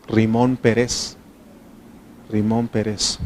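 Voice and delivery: Pérez said as pe-RES, stressed at the end; stress on last syllable. Shown as a demonstration. Teacher repeating the place name, Pérez stressed on the last syllable. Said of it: "no tiene acento en la E".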